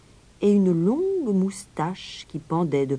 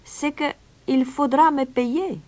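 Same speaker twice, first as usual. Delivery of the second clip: calm stranger; 11 semitones higher, 4 dB louder than usual. A narrator's reading. Stranger names his condition to the mayor, calmly. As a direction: answer unhurriedly in a high put-on voice. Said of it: "répondit calmement l'étranger".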